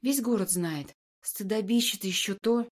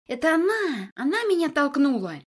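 high, loud squealing accusation; wild shriek; 5 semitones higher, 5 dB louder than usual. Acted. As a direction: scream it out hysterically. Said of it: "дикий визг этой красавицы".

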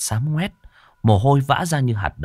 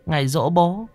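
murmured prayer; 9 semitones higher than usual. Acted. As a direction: murmur a careful prayer to the dead. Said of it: "Kim rì rầm khấn".

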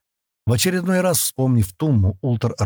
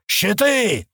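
Щиты yelled much higher as a sudden panicked battle cry; sudden higher yell of warning; alarmed yell; 11 semitones higher than usual. A narrator's reading. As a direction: scream Щиты as the wall bursts open. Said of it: "заорал он".

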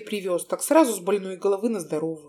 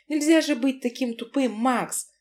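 shrill shriek; 4 semitones higher than usual. Acted. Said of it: "взвизгнула неприятно Маринка".

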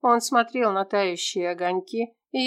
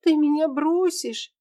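tearful; 8 semitones higher than usual. Acted. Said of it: "Тера всхлипнула".

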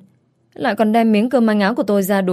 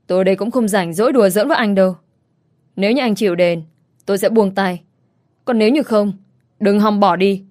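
stern. Acted. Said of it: "nghiêm giọng".

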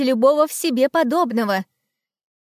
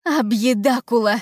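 terrified shout; 4 dB louder than usual. Acted. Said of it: "Монстрики закричали от ужаса".

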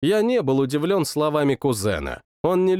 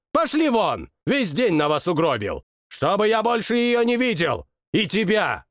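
high, furious royal dismissal; tantrum king; 7 semitones higher than usual. Acted. King dismisses everyone, high and furious. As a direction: throw them all out in a tantrum.

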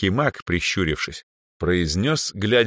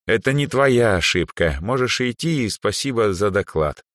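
calm; 5 semitones higher than usual. Acted. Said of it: "спокойно добавил".

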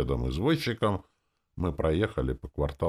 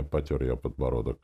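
ordinary delivery

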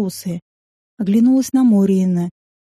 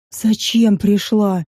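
slow, lightly hissed serpent voice; a hint of a hissing snake, drawn out; quiet hissing voice; much slower than usual. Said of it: "тихий шипящий голос".

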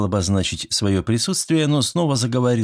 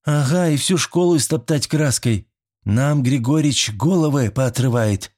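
snide; 7 semitones higher than usual. A narrator's reading. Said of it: "ехидно прокомментировала".

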